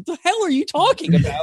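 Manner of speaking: high, baffled what-the-hell; baffled outburst. Retold or imitated. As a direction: react in total disbelief. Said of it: "I was like".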